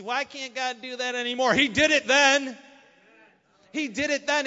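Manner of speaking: high, loud preaching outburst; emphatic exclamation. Real, not acted. Preacher answering why God won't act now, forceful.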